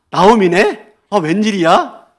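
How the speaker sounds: put-on lifted, delighted surprise at an old friend; glad surprise. Shown as a demonstration. Townswomen spotting Naomi back home, happily surprised. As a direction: greet her with pleased astonishment. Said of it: "라고 하면 반가움의 표시다".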